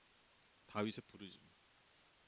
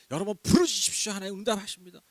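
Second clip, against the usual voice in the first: loud mock sermon slogan; mocking a shallow preacher; 5 semitones higher, 6 dB louder than usual. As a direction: ham up a cheap prayer formula. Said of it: "시덥지 않은 뭐 기도의 뭐 법칙". (값싼 기도 법칙을 외치는 설교자 흉내)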